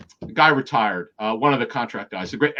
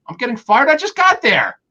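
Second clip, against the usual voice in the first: mock panic; 9 semitones higher, 3 dB louder than usual. Recalling fear of being fired to the host, mock panic. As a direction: pitch shooting higher and louder in imitated alarm.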